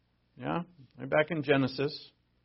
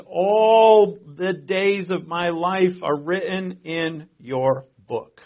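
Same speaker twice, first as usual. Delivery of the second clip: solemn scripture quote; 3 semitones higher, 5 dB louder, much slower than usual. Acted. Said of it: "But David says".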